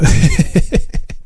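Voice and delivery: airy high giggle; breathy laugh. Real, not acted. Laugh after own joke.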